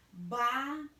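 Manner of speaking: "Barulhinho" in syllables with very long pauses. Shown as a demonstration. Teacher dictates as she writes, "Barulhinho" syllable by syllable. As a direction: dictate "Barulhinho" one syllable, then wait. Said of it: "eu vou separar".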